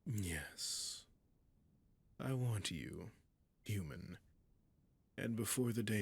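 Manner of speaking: a covetous, hushed whisper; seductive whisper. Acted. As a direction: whisper as if savouring a prize. Dragon admiring captive.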